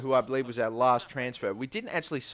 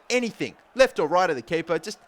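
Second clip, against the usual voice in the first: out of breath; 5 semitones higher, 4 dB louder than usual. Real, not acted. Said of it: "gotta catch my breath".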